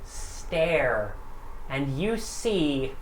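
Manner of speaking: slow, dramatic scene-setting; game master narration. Acted. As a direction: draw the players in slowly. GM sets the scene slowly.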